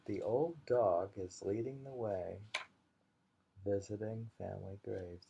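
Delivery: gentler repeat of the haiku; a fond second reading; poem recital. Acted. Repeating the dog haiku for a friend, fond recital.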